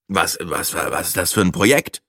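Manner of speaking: halting, tentative question; cautious. A narrator's reading. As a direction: feel your way into the question, stumbling at the start. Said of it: "fragte Breitling vorsichtig". (vorsichtig, zögernd fragend)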